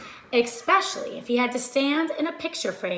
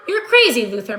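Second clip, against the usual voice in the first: scoffing thief; 7 dB louder, faster than usual. Acted. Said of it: "Max said".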